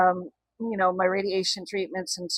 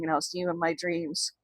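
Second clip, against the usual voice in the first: teary; 10 dB quieter than usual. Real, not acted. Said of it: "getting a little teary-eyed".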